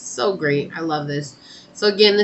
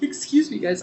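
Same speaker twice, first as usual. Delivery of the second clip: a real yawn stretching the words out, louder; yawning through words; 5 semitones higher, 10 dB louder than usual. Real, not acted. A tarot reader yawning mid-reading to viewers, words stretched by a yawn. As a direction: let a yawn swell through the line. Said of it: "I don't know why I keep yawning".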